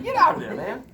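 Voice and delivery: high loud defiant yell; shout back at doubt. Pretend. Teacher shouting down negative self-talk, high and loud. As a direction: tell the voice off hard. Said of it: "so you're like".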